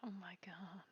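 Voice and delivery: awed whisper. Real, not acted. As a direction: breathe it out in awe. Awed reaction to holy chariot.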